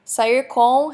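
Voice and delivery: sair com drawn out very slowly; teacher modeling the phrase sair com slowly; slow demo. Shown as a demonstration.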